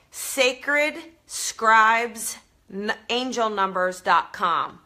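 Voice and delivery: slowly and clearly, each word set apart; slow careful spelling out. Shown as a demonstration. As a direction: spell out the site name slowly. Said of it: "so that you can understand it with my Jersey accent".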